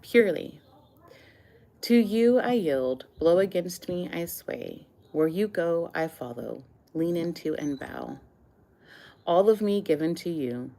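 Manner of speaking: measured poetry recital, phrases set apart by pauses; poem reading. Acted. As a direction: lift each line's opening, let its end settle. Reads own poem aloud.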